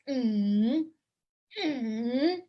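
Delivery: "mm" hummed down and then up; third tone. Shown as a demonstration. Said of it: "That's third tone".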